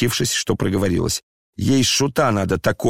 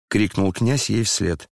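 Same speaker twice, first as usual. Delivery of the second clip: ordinary delivery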